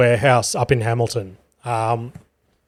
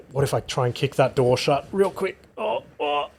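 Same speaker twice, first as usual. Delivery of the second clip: hushed aside; 10 dB quieter than usual. Real, not acted. Cat about to knock camera.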